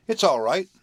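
high, loud encouragement; calling out. A narrator's reading. Boy urging the horse to follow, calling out. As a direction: call it out, pitched well up. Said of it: "called the boy".

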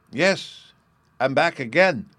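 put-on high, loud child cry; excited cry. A narrator's reading. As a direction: cry it out gleefully. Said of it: "cried Bruno".

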